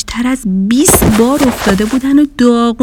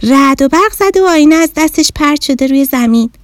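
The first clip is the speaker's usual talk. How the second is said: bossy mirror explaining itself; sassy magic mirror; 4 semitones higher than usual. Acted. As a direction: mirror telling the bear to pick it up. Mirror tells its story.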